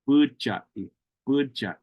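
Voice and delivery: budai with the D said as ch, like buchai; ch sound variant. Shown as a demonstration. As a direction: turn the D of budai into ch. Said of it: "more like a ch".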